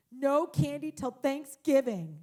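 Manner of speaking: lightly hammed-up reluctant verdict; mock solemn child. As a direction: imitate a kid gravely passing sentence on herself. Child solemnly declares own consequence.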